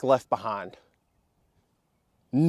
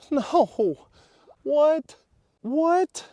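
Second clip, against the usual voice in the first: surprised; much slower than usual. Real, not acted. Startled in the water.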